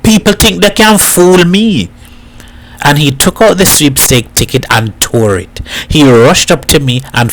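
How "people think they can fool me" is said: put-on an old man shouting in bitter rage; shouted. A narrator's reading. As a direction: shout it at the boy. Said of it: "he shouted".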